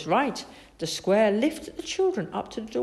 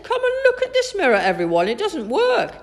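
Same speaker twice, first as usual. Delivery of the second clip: high, loud calling out; excited call; 12 semitones higher, 6 dB louder than usual. A narrator's reading. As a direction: summon everyone to come and see. Kipper calls the others over.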